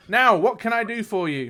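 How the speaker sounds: lightly voiced leprechaun, high and projected; playful leprechaun. A narrator's reading. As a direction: offer help as a leprechaun host. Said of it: "says the leprechaun".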